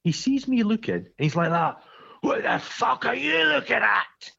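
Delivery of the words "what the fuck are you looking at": roofer's rage. Retold or imitated. Roofer shouting at him.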